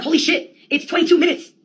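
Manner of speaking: high-pitched exclamation of disbelief; imitated shocked outburst; mock astonishment. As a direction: act out someone amazed, voice jumping up. Quotes an amazed audience member.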